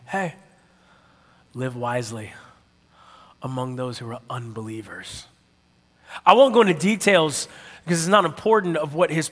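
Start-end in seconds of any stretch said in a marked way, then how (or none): 0.0-5.2 soft, low, measured counsel with pauses; quietly nudge, leaving space between phrases; God's gentle voice. Retold or imitated. God counselling an angry worker, quiet and gentle. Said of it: "is how he talks to me".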